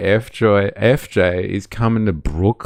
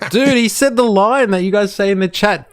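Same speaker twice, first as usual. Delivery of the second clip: high, loud laughing; a streamer laughs as Tommy says the chat's line; excited laughing; 12 semitones higher, 3 dB louder than usual. Real, not acted. Laughing in excited disbelief.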